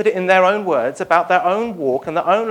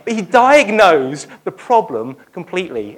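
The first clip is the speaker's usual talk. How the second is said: louder, driven home; emphatic; 5 dB louder than usual. Shown as a demonstration. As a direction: proclaim it firmly. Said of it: "repeated phrase".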